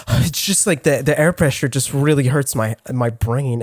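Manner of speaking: low, offhand imitation of her; understated complaint. Girl explaining her screams to teacher, understated complaint. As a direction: play the pain down, voice dropping. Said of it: "she just says it like that".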